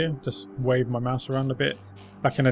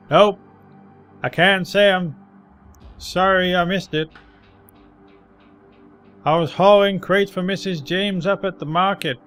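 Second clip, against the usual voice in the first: put-on higher, louder grizzled old man; 5 semitones higher, 5 dB louder than usual. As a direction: ramble like a tired street veteran. Old man recounts his day.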